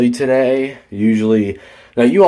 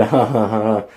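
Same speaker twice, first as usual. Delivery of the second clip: mock chuckle; imitated dismissive laugh. Imitating the coworker laughing at him, mock chuckle. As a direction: mimic someone laughing off a challenge. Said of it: "he's laughing and shaking his head".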